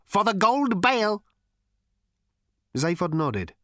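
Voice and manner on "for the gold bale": high, rasping ancient machine; rasped robot. A narrator's reading. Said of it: "rasped the robot".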